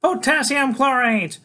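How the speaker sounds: high, slow, excited shout; thrilled kid calling out loud; Freak. A narrator's reading. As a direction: shout it up high, stretching the syllables. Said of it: "he shouts".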